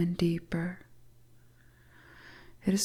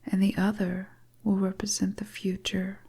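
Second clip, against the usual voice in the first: a hint of a teasing witch, whispered; whispering seductress. Stranger luring the lost traveller into her hut, teasing whisper. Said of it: "the beautiful stranger starts to speak".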